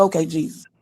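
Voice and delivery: small, soft mock-meek okay; meek reply. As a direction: shrink back and answer quietly. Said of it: "I said".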